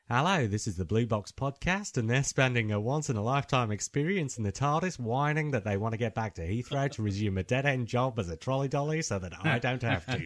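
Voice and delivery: a light put-on Australian accent, reading as Tegan; Tegan's Australian accent. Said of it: "Are you saying I should stop with the accents?".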